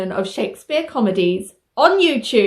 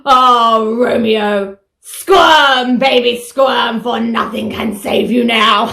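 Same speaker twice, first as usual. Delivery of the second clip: gloating villain; 3 semitones lower, 4 dB louder, slower than usual. Acted. Villain menacing puppet Romeo.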